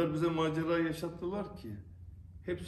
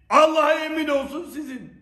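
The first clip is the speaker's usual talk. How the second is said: angry shouting; 9 semitones higher, 7 dB louder than usual. Real, not acted. Angry rant at persecutors.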